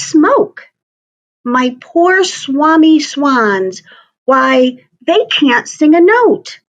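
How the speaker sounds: the Lorax scolding the Onceler about smoke; croaking Lorax. A narrator's reading. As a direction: complain through a smoggy throat. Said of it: "he cried with a cruffulous croak".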